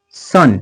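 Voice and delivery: "सन" with U sounded as अ. Shown as a demonstration. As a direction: say "सन" with a short अ vowel. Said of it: "यू च अ असं उच्चार होते". ("सन" मधील यू चा अ असा उच्चार)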